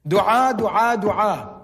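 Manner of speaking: "Dua" three times in close succession, first ones loud; emphatic repetition. Shown as a demonstration. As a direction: drum in each "dua", settling on the last. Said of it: "Allah said the word dua three times".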